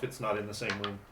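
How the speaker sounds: ordinary delivery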